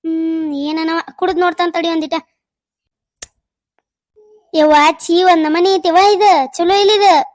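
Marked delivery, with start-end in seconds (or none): 4.5-7.3 loud disgusted groan at the taste; mother-in-law recoiling from bitter cough syrup. Acted. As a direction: spit out the words like bad medicine.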